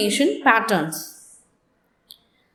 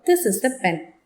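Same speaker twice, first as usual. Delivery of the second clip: statement with "pen" falling low at the end; 4 semitones lower, faster than usual. Shown as a demonstration. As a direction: let the pitch drop on "pen". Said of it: "make use of a falling tone".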